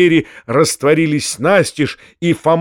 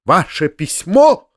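mild shriek, a bit higher; 4 semitones higher, slower than usual. Acted. Foma squealing back at the uncle, mildly shrill. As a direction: squeal the question, slowly. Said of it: "взвизгнул Фома".

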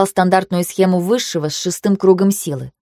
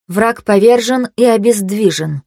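dry; 3 semitones higher, 3 dB louder, slower than usual. Acted. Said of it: "сухо констатировала я".

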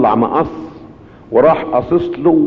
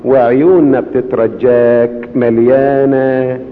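slow, lowered prayerful plea; slow closing prayer; slower than usual. Acted. Preacher praying to Jesus for forgiveness with the congregation, slow and humble.

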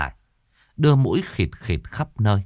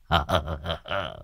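sly chuckle; 4 semitones lower, 6 dB quieter than usual. Acted. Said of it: "cười nham hiểm".

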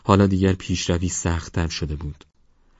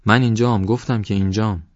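impatient answer; 5 semitones higher, 4 dB louder than usual. Acted. Ghostly friend answers impatiently.

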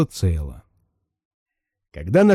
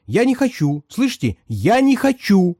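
high, agitated insistence; shrill protest; 8 semitones higher than usual. Acted. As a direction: refuse it in rising alarm. Passenger protests, jumping up.

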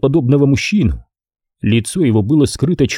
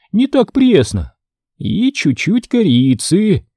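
muttering witch; 8 semitones higher than usual. A narrator's reading. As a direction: savor the words like a gleeful witch. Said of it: "приговаривая". (высокий голос ведьмы-людоедки)

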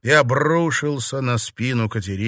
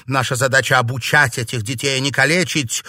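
indignant protest; 3 semitones higher, 5 dB louder, faster than usual. Acted. Colleague protests the cruelty.

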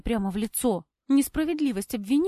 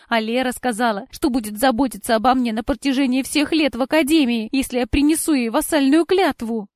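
defensive explanation; 3 semitones higher, 8 dB louder than usual. A narrator's reading. Cora justifies herself in quarrel.

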